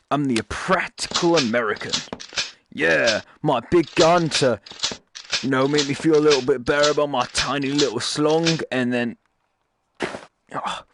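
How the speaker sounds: lightly put-on, shitty American accent. Gamer mocking a gun-loving American, in a rough American accent. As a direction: play the gun-proud American, badly. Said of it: "my shitty American accent".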